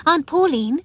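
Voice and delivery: high, loud call. A narrator's reading. Sis calling her aunt as storm comes, calling out. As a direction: call up to get her attention. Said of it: "she called".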